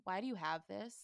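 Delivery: mock-grave question; lightly acted stern seriousness; solemn. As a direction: ask it with understated solemnity. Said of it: "Very solemnly, he's like".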